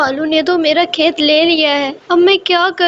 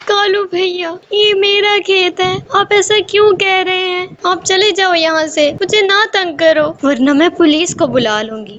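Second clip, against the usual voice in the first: upset sparrow pleading; 2 semitones higher than usual. Acted. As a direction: push back, hurt and pleading. Sparrow pleads, threatens police. (چڑیا اونچی، گھبرائی آواز میں)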